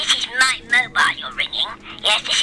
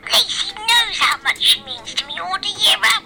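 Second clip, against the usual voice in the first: higher, raised indignant declaration; indignant shout; 5 semitones higher than usual. Acted. Charlie insisting to Bert that Lacey needs no Valentine's, indignant. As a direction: insist it hotly.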